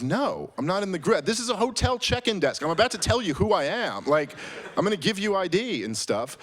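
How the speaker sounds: indignant at a silly question; exasperated reply. Retold or imitated. Exasperated reply to hotel clerk.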